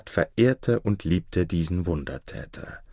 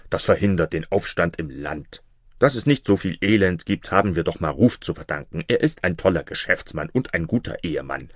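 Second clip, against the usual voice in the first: a hint of an unworried king; dismissive king; 2 semitones lower than usual. King defends son-in-law to vizier, mildly dismissive. King's voice in told story.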